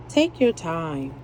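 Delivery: slow, calm take your time; gentle advice. Shown as a demonstration. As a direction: soothe the viewers into slowing. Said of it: "That's all I'm gonna tell you".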